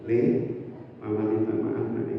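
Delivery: put-on soft whisper to child. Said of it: "membisikkan di telinga anak".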